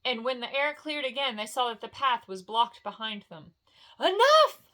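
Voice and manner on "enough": much higher, much louder dwarf's bellow; furious shout. Acted. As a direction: roar it at the mountain. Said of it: "cried Gimli".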